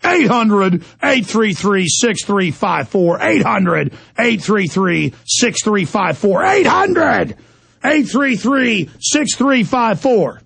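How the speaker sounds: slow, deliberate digit-by-digit reading; slow dictation. Real, not acted. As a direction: spell out the number for listeners to write down. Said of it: "I'm gonna give you a number".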